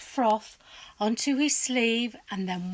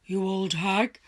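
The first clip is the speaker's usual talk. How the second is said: irritated husband; 7 dB louder than usual. A narrator's reading. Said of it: "Mister Twit said".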